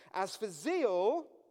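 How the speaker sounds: slow, loud, drawn-out drawl, full of sarcasm.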